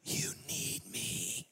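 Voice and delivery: low, slow, drawn-out voice of a gun; a deep slow voice coaxing him to buy it; tempting weapon voice. Retold or imitated. The weapon on the rack lures the pastor, low and slow. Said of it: "this weapon began to say".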